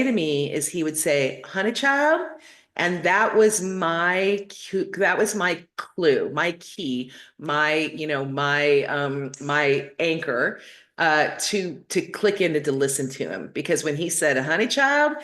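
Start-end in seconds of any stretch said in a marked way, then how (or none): 1.4-2.2 imitating dad's Kentucky drawl, pitched up on Honey child; a fond, light Kentucky drawl for Honey child. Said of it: "would slip back into his Kentucky drawl". 14.4-15.1 imitating dad's Kentucky drawl, pitched up on Honey child; a fond, light Kentucky drawl for Honey child. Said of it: "would slip back into his Kentucky drawl".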